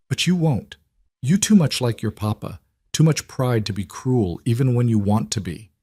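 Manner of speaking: put-on older woman, thick Polish accent. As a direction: speak with a heavy Polish accent. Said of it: "in her thick accent".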